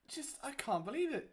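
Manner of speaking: disbelieving whisper; hushed, stunned whisper. Real, not acted. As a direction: breathe it out in disbelief. Disbelief at bad start.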